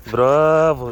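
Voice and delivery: a big, loud bravo to the dog; proud trainer's loud praise. Real, not acted. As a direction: cheer the dog on loudly. Praising dog after a trick.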